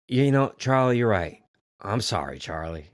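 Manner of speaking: understated heartfelt sorry; sincere apology. Retold or imitated. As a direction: act out a mild, sincere backing-down. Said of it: "he's so sincere about it".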